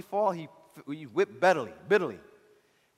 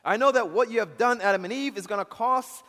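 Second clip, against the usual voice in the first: insistent preaching; 4 semitones higher, 5 dB louder than usual. Acted. Preacher voices God's warning to Adam.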